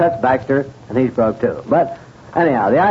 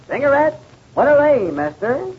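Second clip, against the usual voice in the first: sideshow barker; 11 semitones higher than usual. Acted. Barker answers cigarette question.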